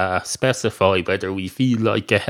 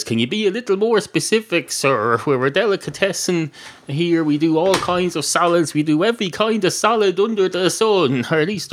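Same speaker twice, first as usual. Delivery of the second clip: lightly voiced counter woman, higher pitch; deli counter woman; 5 semitones higher than usual. Woman behind the bar answers the cat, lightly voiced, higher.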